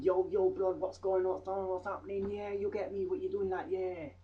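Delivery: mock street slang. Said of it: "hear someone going".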